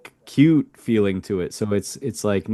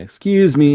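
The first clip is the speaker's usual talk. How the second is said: "Excuse me" with the u held long, higher and louder; 6 semitones higher, 6 dB louder than usual. Shown as a demonstration. Host showing a learner the cute polite tone, long u. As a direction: stretch the u of "Excuse" up and loud. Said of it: "the U's long".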